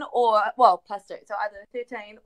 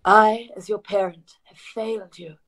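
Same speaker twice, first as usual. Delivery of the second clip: tender parent. Acted. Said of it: "and I say".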